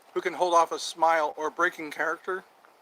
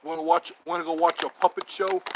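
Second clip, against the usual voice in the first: a touch louder, lightly tough-guy; mock tough talk; 4 dB louder than usual. Inviting a friend to a puppet show, mock-tough. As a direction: sell a sweet offer like a threat. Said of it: "That sounds real tough".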